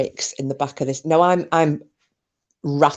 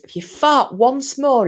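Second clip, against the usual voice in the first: slow, raised-pitch mock warning; imitated angry driver; 7 semitones higher, slower than usual. Retelling the taxi driver's threat, mock angry. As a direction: play a driver losing his temper. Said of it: "the taxi driver loses his shit".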